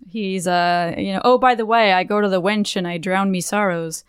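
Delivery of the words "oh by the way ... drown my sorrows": put-on light pirate accent, drown me sorrows. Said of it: "He doesn't talk like a pirate. I don't know why I do that".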